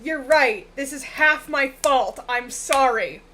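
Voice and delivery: loud, lightly mocking apology; imitating Winnie. Reporting what Winnie just said, mock apology. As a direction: repeat the apology loudly, as a quote. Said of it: "Winnie goes".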